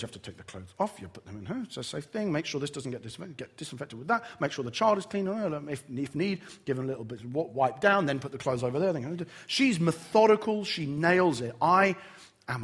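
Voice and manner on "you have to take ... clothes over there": softer, lower, steady instructions; calm and collected. Retold or imitated. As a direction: methodically talk through the cleanup. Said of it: "She is calm and collected".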